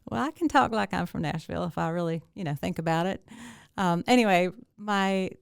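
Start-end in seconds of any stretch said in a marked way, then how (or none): 0.1-3.2 light Nashville twang; Nashville accent. Shown as a demonstration. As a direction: talk like you're from Nashville. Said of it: "can you pop it out now".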